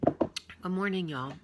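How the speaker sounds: slow loud Southern hello; drawled southern greeting. Pretend. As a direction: stretch it out, country style. Trying greeting voices.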